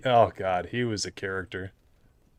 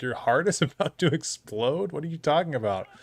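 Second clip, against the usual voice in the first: incredulous retold question, pitched up; shocked; 4 semitones higher than usual. Replying to coworker's heart news, shocked. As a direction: question it in half-laughing disbelief. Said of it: "shocked by this".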